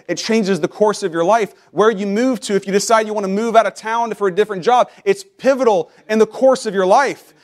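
mounting pulpit fervor; rising preaching. Real, not acted. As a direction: climb in pitch with each phrase. Preacher building to a peak.

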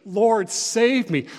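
loud, slow plea for rescue; desperate cry. Acted. Sinking Peter begging Jesus to save him, desperate cry. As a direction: drag out a desperate cry for help. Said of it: "Peter cries out in desperation".

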